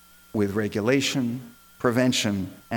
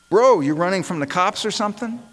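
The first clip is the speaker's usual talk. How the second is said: higher-pitched imitated call-out; 7 semitones higher, 3 dB louder than usual. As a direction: mimic a passerby calling out to someone. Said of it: "this white guy calls out to him".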